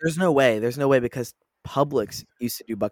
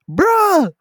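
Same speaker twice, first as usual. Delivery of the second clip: very high, loud mock yell; TikTok meme imitation; 10 dB louder than usual. Friend finishes the TikTok bit, high yelling imitation. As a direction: yelp it loudly like the meme. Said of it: "I love that TikTok so much".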